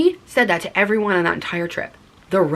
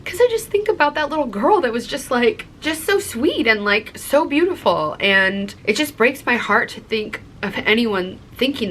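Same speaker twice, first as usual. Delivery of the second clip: higher, tender voice welling up; real tender emotion, pitched higher; getting emotional; 5 semitones higher than usual. Real, not acted. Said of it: "I'm getting emotional".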